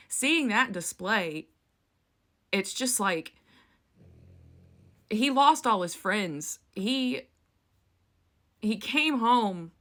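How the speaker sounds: slow, halting, voice straining with grief; choked-up pleading over grandfather's memory; real emotion. Real, not acted. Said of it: "I'm gonna get emotional talking about this".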